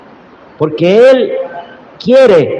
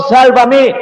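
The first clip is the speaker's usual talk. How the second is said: pleading cry; 7 semitones higher than usual. Retold or imitated. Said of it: "qué grita el Señor".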